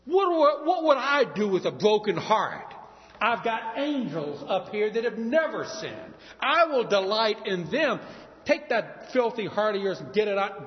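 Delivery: high, loud scornful divine voice; indignant God. Pretend. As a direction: scoff at the broken heart as God. God imagined rejecting broken heart.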